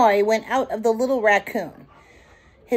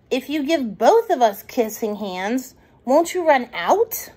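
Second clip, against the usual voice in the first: put-on lightly raised curious little boy; child voice; 3 semitones higher than usual. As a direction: ask like a worried kid. Chester asks.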